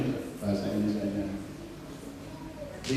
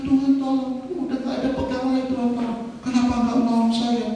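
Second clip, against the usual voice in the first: high, urgent cry for help; acted desperate plea; 8 semitones higher, faster than usual. Man on the flooded roof begging God, high acted pleading. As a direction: plead from the rooftop, pitched up.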